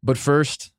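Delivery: mock host lead-in, lifted at the end; taking over the show's catchphrase. Host borrowing his departed co-host's catchphrase, a touch of ceremony. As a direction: deliver the sign-off cue like the old co-host. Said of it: "usually I say, "But first," and then Tate takes over".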